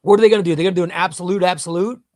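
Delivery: excited. Real, not acted. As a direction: burst out with the question. Excited speculation to chat.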